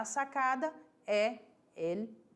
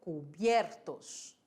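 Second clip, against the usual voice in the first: slow Spanish word; 4 semitones lower, slower than usual. Shown as a demonstration. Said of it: "Em espanhol".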